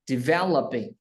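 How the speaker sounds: "developing" with the second syllable, VE, stressed. Shown as a demonstration. Teacher models the stressed sound for learner, stress on VE. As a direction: hit VE in "developing", let the rest fall. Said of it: "nhấn âm vé".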